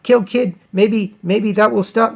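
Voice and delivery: slow, dim-witted caveman voice; mock caveman. Mocking a primitive planning a sacrifice, slow and dim. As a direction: talk like a slow brute.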